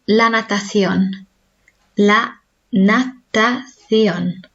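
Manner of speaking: natación drawn out slowly with the O stressed. Shown as a demonstration. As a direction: lean on the ón of natación. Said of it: "accent is on the O".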